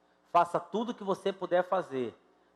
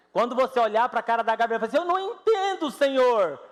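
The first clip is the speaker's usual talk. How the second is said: loud, fast preaching with a high cry; rising to a high loud cry; fervent shout; 10 semitones higher, 9 dB louder than usual. Real, not acted. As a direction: preach it out at full force.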